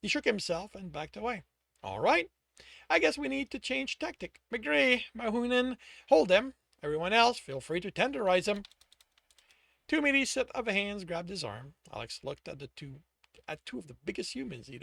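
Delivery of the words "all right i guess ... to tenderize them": commanding. Acted. Thug leader giving orders.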